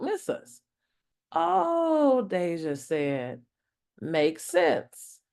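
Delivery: warm, lively storybook narration; reading to children. Acted. Reading Santa in the City to kids, animated narration. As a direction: read it aloud for a young audience.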